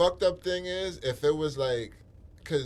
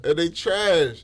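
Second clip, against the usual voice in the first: emphatic, drawn out; 3 semitones higher, 6 dB louder, slower than usual. Real, not acted. Mocking the jail food.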